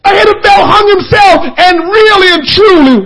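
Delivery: preacher mourning Ahithophel, crying shout; preaching cry. Real, not acted. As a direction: wail the tragedy out.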